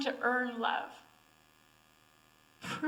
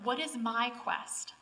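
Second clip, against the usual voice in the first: slow, reflective; slower than usual. Shown as a demonstration. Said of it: "Number one".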